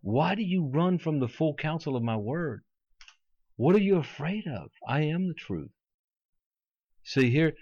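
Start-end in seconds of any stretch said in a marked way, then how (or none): 0.0-5.7 lightly voiced challenging Jesus; Jesus confronting. Preacher voicing Jesus questioning a half-hearted follower, mildly confronting. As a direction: put earnest, probing questions, pausing between them. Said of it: "he's gonna say to me".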